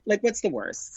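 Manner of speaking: a bubbly dare-to-myself voice; excited self-talk. Retold or imitated. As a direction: pump yourself up on a whim. Retelling her excited self-talk.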